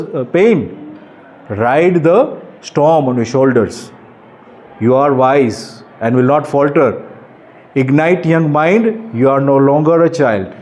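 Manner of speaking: slow, weighty poem reading; poem recital. Acted. Speaker reciting his own poem to teenagers, slow and solemn. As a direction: recite each word slowly like a call to wake up.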